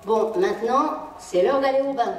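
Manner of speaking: plain firm "c'est l'heure d'aller au bain"; flat command. Shown as a demonstration. Parent ordering the child to the bath, matter-of-fact. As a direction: announce bath time as an order. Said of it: "au lieu de dire à un enfant".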